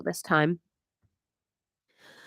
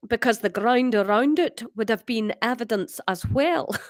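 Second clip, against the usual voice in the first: Scottish character read; attempted Scottish accent at normal pitch. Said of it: "is that Scottish?".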